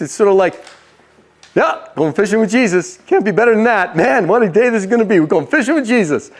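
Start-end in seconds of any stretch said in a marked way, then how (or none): 1.5-6.3 put-on eagerness for show; over-agreeable, pretending all is great; faked enthusiasm. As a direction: play keen while secretly dreading it. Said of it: "Ever been there where you faked it?".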